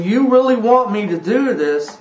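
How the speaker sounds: earnest, searching Abraham, lightly voiced; preacher putting words in Abraham's mouth; voicing Abraham. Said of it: "and Abraham saying".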